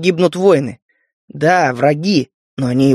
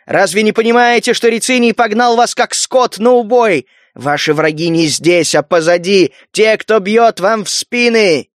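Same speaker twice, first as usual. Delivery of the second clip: roaring rallying speech; 4 semitones higher than usual. Acted. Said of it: "И обратился к солдатам".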